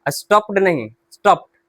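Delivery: स्टॉप्ड with a short t ending; teacher drills स्टॉप्ड with a t. Shown as a demonstration. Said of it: "टा का sound आएगा".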